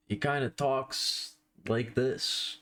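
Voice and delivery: slow, halting attempt at a famous actor's voice; hesitant, half-hearted impression with stilted gaps; Christopher Walken. Streamer trying a requested Christopher Walken for viewers, shaky stilted impression. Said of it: "do a Christopher Walken".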